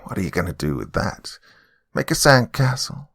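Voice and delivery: mocking old lady, pitch leaping up at the end; lightly cackling, scornful old woman. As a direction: taunt them as the old lady, ending high. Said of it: "the old lady cackled at me".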